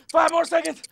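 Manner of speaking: high, energetic count to the finish; finishing countdown. Acted. Coach counts down the last seconds of exercise, high calling. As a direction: call out each number like a coach.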